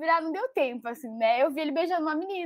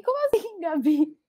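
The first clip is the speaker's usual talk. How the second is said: surprised; 2 semitones higher than usual. Retold or imitated. Surprised at friend's correction.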